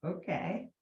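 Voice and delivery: amused exclaim of relief; mock overwhelmed gasp. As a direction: play up the overwhelm of the big opening. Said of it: "it's always like".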